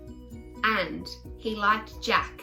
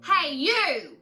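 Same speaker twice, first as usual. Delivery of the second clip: bellowing; 3 semitones higher, 3 dB louder than usual. Acted. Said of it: "Missus Cripps bellowed".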